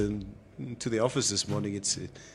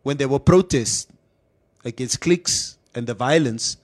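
raised, accusing call-out; 3 dB louder than usual. Retold or imitated. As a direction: call her out loudly. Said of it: "somebody called out yesterday and like".

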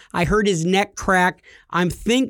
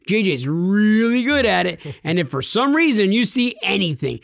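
imitating eager office guy; 4 semitones higher than usual. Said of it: "And he's like".

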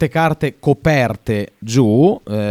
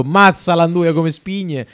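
put-on Roman accent; 3 semitones higher, slower than usual. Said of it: "una sua grande cheat".

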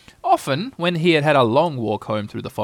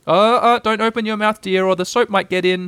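high, sing-out cautioning; fussing mother at bath time; motherly warning; 8 semitones higher, 4 dB louder than usual. A narrator's reading. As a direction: warn a child off, starting high and loud. Kanga warns bathing child.

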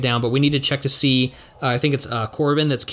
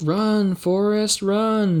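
high, urgent cheering; excited shout; 8 semitones higher, much slower than usual. Pretend. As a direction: urge him on to run, high. Quoting famous movie line.

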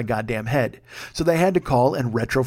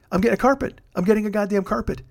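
gleeful gloat; 6 semitones higher than usual. Real, not acted. Gloating over carpet.

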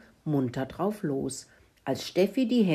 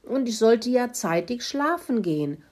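high-pitched, lightly voiced pig confession; mildly whiny pig, pitched up; quietly grunting pig; 6 semitones higher than usual. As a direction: make excuses as a sheepish pig. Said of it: "grunzte Kalle leise".

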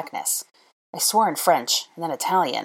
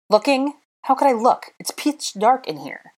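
high, raised incredulous retort; exasperated; 9 semitones higher, 4 dB louder than usual. A narrator's reading. Draco arguing in pitch dark, exasperated. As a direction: throw the question back exasperatedly. Draco snapping back in quarrel.

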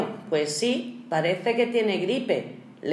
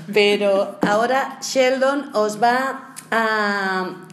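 trying not to laugh; 3 dB louder, slower than usual. Real, not acted. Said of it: "estamos intentando no reírnos".

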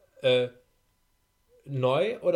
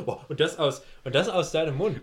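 lachend; 3 semitones higher, 5 dB louder than usual. Real, not acted. Lacht über den Kollegen.

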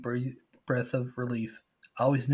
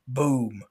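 shouted boom; loud boom sound effect; 5 dB louder than usual. Retold or imitated. Narrator voicing boats flipped over. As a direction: slam the word like a crash.

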